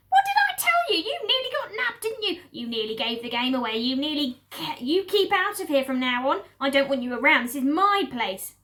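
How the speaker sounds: very high, loud rat screech; shrieking Rat. Acted. Rat scolds the fox from his shelf, very high. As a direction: screech at them, jealous and bossy.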